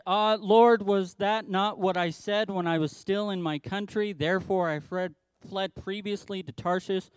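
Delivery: a sulking prophet complaining to God; bitter prayer. Retold or imitated. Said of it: "he prayed to the Lord and said".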